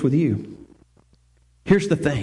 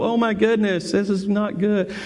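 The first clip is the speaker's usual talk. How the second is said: lightly hammed-up worried sigh; mock dismay; 2 semitones higher than usual. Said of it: "that's the way we interpret the word woe".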